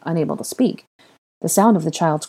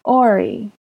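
put-on higher, small child's answer; tearful child; 5 semitones higher, 3 dB louder than usual. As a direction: answer like an upset toddler. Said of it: "answered through his continued sobs".

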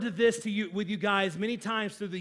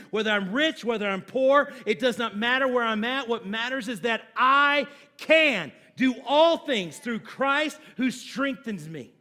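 preaching climax; 3 semitones higher, 6 dB louder than usual. Acted.

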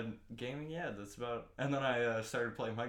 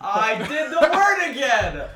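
laughing loudly; 13 semitones higher, 16 dB louder, slower than usual. Real, not acted. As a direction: laughs it out high. Laughing at own slip.

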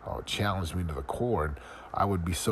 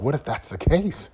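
panicked doubt; 8 semitones higher, 7 dB louder than usual. Retold or imitated. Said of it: "I was like".

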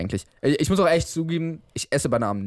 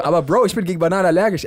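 lachend empört; 4 semitones higher, 5 dB louder than usual. Retold or imitated. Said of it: "und ich so".

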